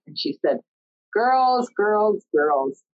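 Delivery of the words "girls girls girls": drawn-out call, starting high and stepping down; imitating chiding elder. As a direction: rein them in, high start easing to normal pitch. Retold elder sister soothing upset women.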